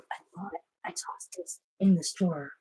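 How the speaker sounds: soft whispered aside; hushed whispered murmur. Real, not acted. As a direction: keep quiet near the cat. Whispering while trimming claws.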